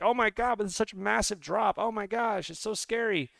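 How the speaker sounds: high, whiny fake panic over the drop; mock panicked viewer. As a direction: pretend to be a scared holder freaking out. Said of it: "You're like".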